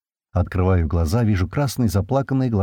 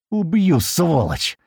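yelling; 8 semitones higher, much slower than usual. A narrator's reading. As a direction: roar a death threat through the bars. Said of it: "заорал Слива".

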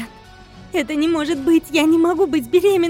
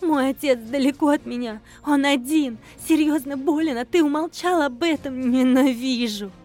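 higher, louder furious tirade; lashing accusations; 5 semitones higher, 5 dB louder than usual. Acted. Wife hurling accusations at her husband, high and loud. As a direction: lash him with accusations. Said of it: "хлестала обвинениями".

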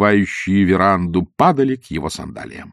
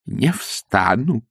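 stubborn refusal; much slower than usual. Acted. Priest refuses, kneeling.

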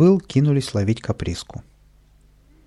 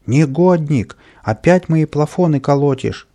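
loud, higher scolding yell; angry shout; 4 semitones higher, 5 dB louder than usual. Acted. Gardener yelling at Kapriska over the broken lamps, angry shout. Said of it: "закричал садовник".

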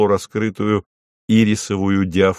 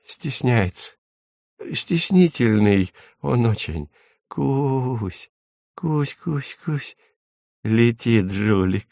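tender; 3 semitones higher, slower than usual. A narrator's reading. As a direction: speak fondly of a shy pet. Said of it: "произнёс он нежно".

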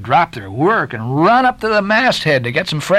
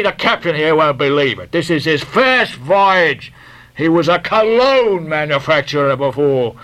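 confiding mate; 5 semitones higher than usual. A narrator's reading. Guernseyman confiding.

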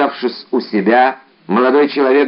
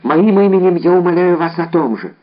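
higher, urgent pleading; strong emotion; 6 semitones higher than usual. A narrator's reading. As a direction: let the emotion break out, pitched up. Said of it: "с сильным волнением".

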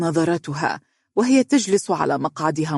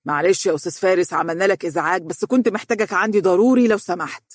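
apologetic, a bit quick and awkward; sorry to trouble him, rising toward the end; embarrassed; 3 semitones higher, faster than usual. Acted. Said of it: "ولكنه قال بحرج". (بحرج واعتذار)

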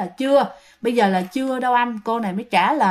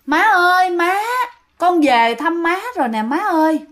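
raised calling voice from the doorway; calling out to mother; 5 semitones higher than usual. Acted. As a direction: call out to mom from outside. Ghost calling mother from doorstep.

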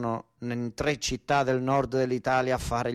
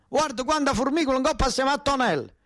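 grandmother's exclamation; 12 semitones higher than usual. Retold or imitated. Grandmother voiced in story.

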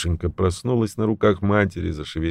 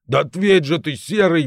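demanding shout down the line; booming into phone; 9 semitones higher, 3 dB louder than usual. A narrator's reading. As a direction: make him answer. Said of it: "басил в трубку Жила".

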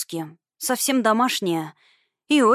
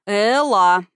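louder warning call; raised voice; 5 dB louder than usual. A narrator's reading. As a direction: rein her in with a firm call. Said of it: "повысил голос я".

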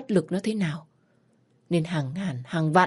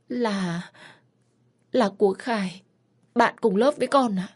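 faltering, higher confession; hesitant confession; 4 semitones higher than usual. Acted. Daughter confessing to her mother, halting and higher. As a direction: get the name out haltingly.

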